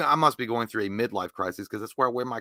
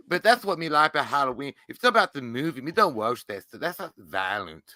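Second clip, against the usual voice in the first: Slender Man. Acted. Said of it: "Can Slender Man and a rapper talk".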